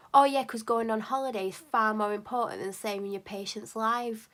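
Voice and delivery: mock the doctor's holiday with biting scorn; sarcastic jab. Upset patient snaps sarcastically at receptionist about doctor's holiday. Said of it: "I was just being really dramatic".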